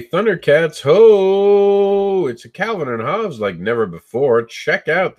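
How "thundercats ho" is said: high, loud rallying shout; battle cry. Acted. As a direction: belt it out like a cartoon hero. Battle cry quoted from a cartoon.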